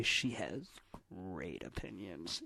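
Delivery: mock-loaded echo, dropping at the end; mimicked suggestive tone. Co-host scolds friend by echoing the remark, mock suggestive. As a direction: imitate a friend's inappropriate tone. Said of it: "in that tone again".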